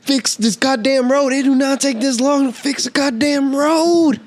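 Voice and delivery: real exasperated rant; ranting demand. Real, not acted. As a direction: demand it like you've had enough. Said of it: "that was a little freaking rant".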